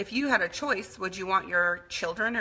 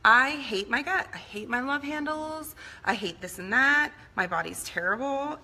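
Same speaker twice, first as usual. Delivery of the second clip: imitating teen self; 6 semitones higher than usual. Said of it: "what I started saying growing up?".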